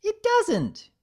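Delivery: very high, loud, falsely bright; a creepy grin in the voice; eerie cheerful Pinkie. Acted. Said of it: "something off about that grin".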